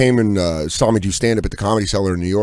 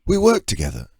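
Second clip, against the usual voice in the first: higher-pitched imitation of a London stranger; London accent; 6 semitones higher than usual. London diner claiming comic as coworker, London accent. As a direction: put on a London man's accent. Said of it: "I was in London".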